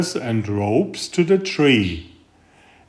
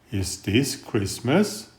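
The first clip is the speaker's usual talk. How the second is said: a quieter, sadder ask, alone and far from friends; lonely, softer little owl; 3 semitones lower, 6 dB quieter than usual. Acted. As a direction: let the question sink, lonely. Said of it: "She was lonely".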